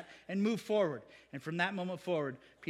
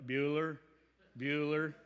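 low, flat, bored teacher calling a name; deadpan roll call; 5 semitones lower, slower than usual. Pretend. Preacher to silent congregation, deadpan bored teacher voice. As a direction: mimic the dull teacher waiting for an answer. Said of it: "Ferris Bueller teacher impression".

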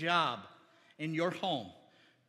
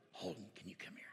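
whisper; 12 semitones lower, 16 dB quieter, faster than usual. Real, not acted. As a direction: softly whisper him up to the front. Pastor calls boy up quietly.

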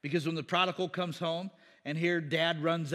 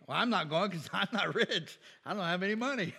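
joking lament, half laughing as you talk; laughing mock complaint; 2 semitones higher than usual. Preacher jokes as one too poor for heaven, laughing mock complaint. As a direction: chuckle through a mock-helpless protest.

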